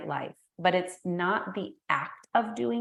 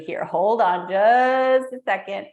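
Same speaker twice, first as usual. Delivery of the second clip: slow pause-the-moment; 2 semitones higher, 9 dB louder, slower than usual. Retold or imitated. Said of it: "where you're like".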